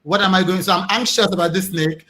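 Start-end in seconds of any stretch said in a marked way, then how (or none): 0.0-0.6 calmly. Shown as a demonstration. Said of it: "but calmly".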